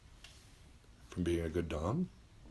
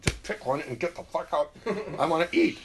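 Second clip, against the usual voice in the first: impatient yell; 9 semitones higher, 6 dB louder than usual. Retold or imitated. Stuck behind someone at the cafeteria, yelling loud. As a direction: snap at the knucklehead in line. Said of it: "You're going".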